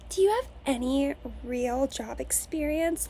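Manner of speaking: slow, drawn-out condescending question; snooty interviewer. Retold or imitated. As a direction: mimic a dismissive interviewer, slowing each word. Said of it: "tell me".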